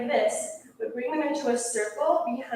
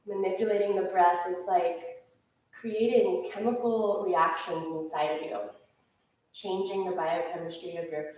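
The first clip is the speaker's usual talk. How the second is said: calm settling; 3 semitones lower, 3 dB quieter than usual. Real, not acted. Settles class after breath hold.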